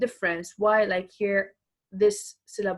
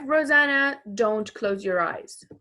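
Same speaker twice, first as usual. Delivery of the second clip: louder call, name pitched up; 4 dB louder than usual. Acted. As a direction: call her by name across the room. Acting out a photographer's command.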